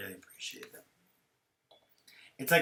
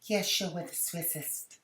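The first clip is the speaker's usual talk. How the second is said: mock flustered bluff; 6 semitones higher, 3 dB quieter, much slower than usual. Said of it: "she goes".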